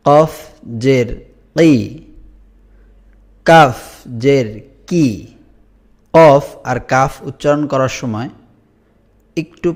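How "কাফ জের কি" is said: কাফ said with a hard push from the throat; forceful push. Shown as a demonstration. Teacher drilling the Arabic letters, a forceful push. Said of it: "এটা ধাক্কা দিয়ে পড়তে হবে".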